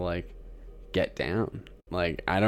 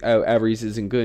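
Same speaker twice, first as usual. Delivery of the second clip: loud mock British reality-show contestant; British accent; 6 dB louder than usual. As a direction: ask it loudly in a put-on British accent. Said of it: "that was an amazing, um, accent".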